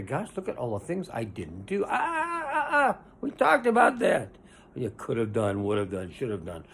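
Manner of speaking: a whiny, high mock lament with a cry in it; mock wailing regret; regretful self-talk. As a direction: act out the person wailing over missed chances.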